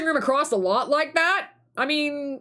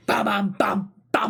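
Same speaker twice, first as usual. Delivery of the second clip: whispered; 4 semitones lower, slower than usual. Acted. Whispered jingle.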